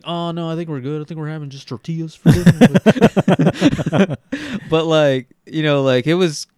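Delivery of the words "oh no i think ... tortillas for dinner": put-on young self. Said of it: "and I was like".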